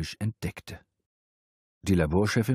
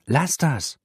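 sharp refusal; 8 semitones higher, 4 dB louder than usual. Acted. Pushes his hands away.

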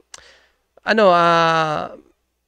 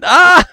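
burst of laughter; 13 semitones higher, 11 dB louder than usual. Real, not acted. Bursts out at own joke.

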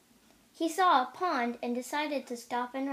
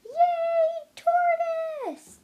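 crowd roar; 7 dB louder, much slower than usual. A narrator's reading. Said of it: "the crowd roared".

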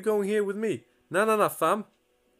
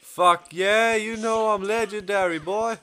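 louder bragging whoop; cocky cheer; 3 semitones higher, 5 dB louder than usual. Real, not acted. Gamer brags about going legendary, cocky cheer. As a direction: gloat like a champion.

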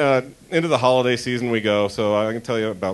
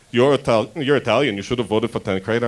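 Liesel voice again. Retold or imitated. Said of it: "got out of my Liesel voice".

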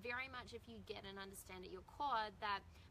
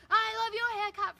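higher, louder call across the beach; 12 semitones higher, 13 dB louder than usual. Retold or imitated. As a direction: call out the compliment from afar.

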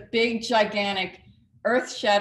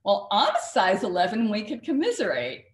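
put-on Jersey accent; 4 dB louder than usual. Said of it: "in her Jersey accent".

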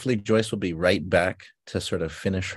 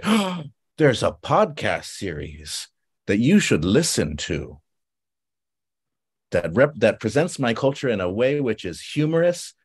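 grand recommendation; 2 semitones higher than usual. Acted. Exchange student recommending a podcast about their culture, grandly. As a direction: present each quality with measured ceremony.

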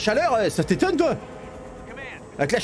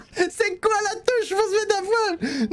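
voix aiguë; slower than usual. Pretend. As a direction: question répétée très aigu et traînant, x0.7. Répète la question en voix aiguë. (voix de fausset moqueuse)

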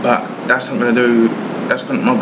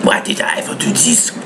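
mock despair; 7 semitones lower than usual. Regret after biting the lemon.

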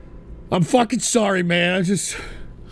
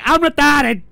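a higher, louder mocking whine; mocking dumb voice; 5 semitones higher, 4 dB louder than usual. Streamer mocks people excusing themselves, whiny mock voice. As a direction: mimic someone playing dumb to dodge blame.

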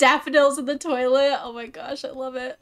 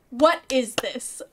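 slow, baffled question; measured disbelief; slower than usual. Pretend. Streamer baffled by passing through a fence, measured disbelief. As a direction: ask it slowly, word by word.

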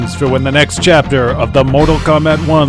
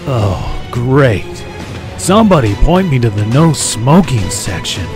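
complaining. Acted. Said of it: "prompting Johnny to complain".

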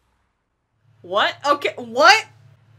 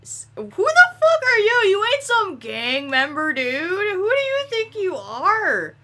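indignant yell; 7 semitones higher, slower than usual. Real, not acted. Yelling at game character.

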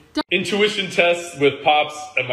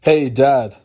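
yelling across the room; 4 dB louder than usual. Real, not acted. Calling dad from upstairs.

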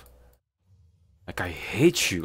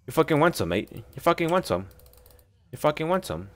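mock tough-guy taunt, pitched up; 7 semitones higher than usual. Real, not acted. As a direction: goad the enemy like a pub brawler. Taunting an enemy in game.

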